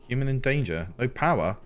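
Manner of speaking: rising alarm, high and quick; panicking at the power cut; mock panic over lost power. Real, not acted. Panicked game chatter, high voice.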